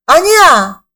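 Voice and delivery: loud, emphatic refusal; firm rebuttal. Acted. Believer answering the devil's temptation, a loud firm rebuttal. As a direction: cut off the doubt loudly.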